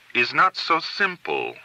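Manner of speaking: ominous. A narrator's reading. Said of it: "she ominously pronounced".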